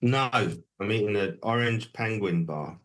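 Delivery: talking with a mouthful; chewing while speaking; mouth full. Real, not acted. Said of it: "With a mouthful of penguin".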